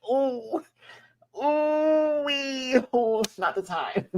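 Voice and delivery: high-pitched whooping, breaking into laughter; amused shock. Retold or imitated. Vlogger reacting to a badly timed joke, amused shock. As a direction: whoop at a joke that is too much. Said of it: "kinda got me like".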